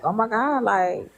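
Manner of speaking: high, slowed, breaking voice; tears coming through the words; tearful disbelief. Real, not acted. Realizing the lump is real, crying high and slow. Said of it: "I was crying silently".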